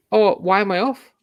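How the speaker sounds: high, jokey mock shrug of a sent-off player; mock carefree player. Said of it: "he just laughs and goes".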